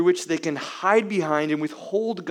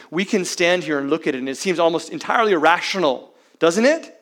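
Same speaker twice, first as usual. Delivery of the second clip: quick, rising, louder toward the question; indignant preaching; 3 semitones higher, 5 dB louder, faster than usual. Real, not acted. Preacher to congregation, growing incredulous.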